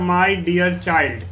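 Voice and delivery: very slow, each word set apart; slow model reading. Shown as a demonstration. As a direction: lay out my dear child for the class. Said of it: "teacher models the English phrase".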